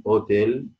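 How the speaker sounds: اوتيل starting straight on "o", no H; silent H. Shown as a demonstration. Teacher showing a silent letter, "otel" without H. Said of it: "يعني غير منطوق".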